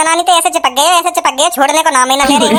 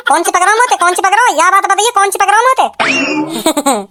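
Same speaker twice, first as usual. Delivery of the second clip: slow, laughing taunt, higher pitch; mocking laugh; 4 semitones higher, slower than usual. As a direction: tease him and break into laughter. Husband mocks doctor, laughing.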